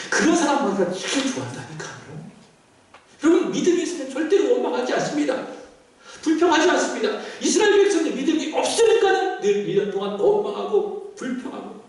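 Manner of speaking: impassioned sermon voice; fervent preaching. Real, not acted. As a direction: declare it firmly from the pulpit. Preaches at full force to congregation.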